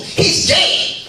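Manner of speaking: hushed secret-telling whisper; whispered gossip. Acted. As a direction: whisper it like scandal. Friend gossiping the news.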